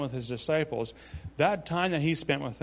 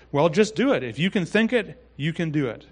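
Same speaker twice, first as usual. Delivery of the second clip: Brother Copeland; 2 semitones higher, 5 dB louder than usual. Retold or imitated. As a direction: push them on with brisk conviction. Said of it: "with a lot of force".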